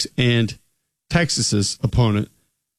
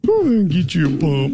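higher-pitched Southern coach holler; mock coach sending a player off; offensive line coach; 4 semitones higher than usual. Co-host playing along with the bit, hammed-up Southern coach. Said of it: "impersonate offensive line coaches".

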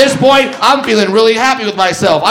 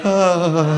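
groaning audience; 3 semitones lower than usual. Retold or imitated. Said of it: "Some of you are like".

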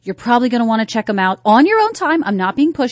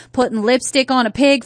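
Southern US accent. Shown as a demonstration. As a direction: say it with a Southern US twang. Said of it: "say it in your Southern accent".

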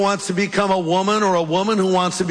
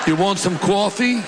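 put-on joking East Coast accent; 2 semitones higher than usual. Preacher joking as an East Coast Adam, East Coast accent. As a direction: throw in an East Coast line. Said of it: "Or East Coast".

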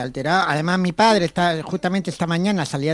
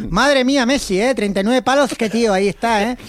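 lightly acted chummy remark, pitched up; friendly small talk; 4 semitones higher than usual. Worker breaking the ice with colleagues over lunch, mock friendly. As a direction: recount an amiable attempt at chit-chat. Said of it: "un tono así amigable".

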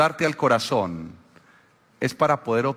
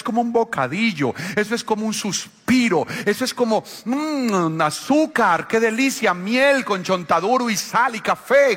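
mock savoring delight; 6 semitones higher than usual. Savoring gossip as candy.

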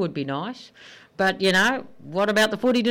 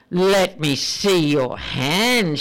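slow, deliberate demand; 2 semitones lower, much slower than usual. Acted. Wife demanding to see husband's hands, slow and deliberate. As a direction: spell each word out like an order. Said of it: "she demanded".

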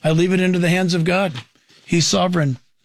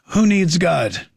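ordinary delivery

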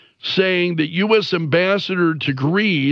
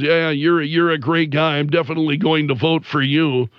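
dry mock praise, lightly imitated; a touch of sarcastic compliment; 3 semitones lower, faster than usual. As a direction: retell the dad's sarcasm, rushing the end. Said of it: "sarcastically says".

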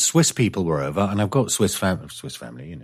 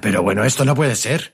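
irate pharmacist; 3 semitones higher, faster than usual. Retold or imitated. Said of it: "the pharmacist was getting a bit irate".

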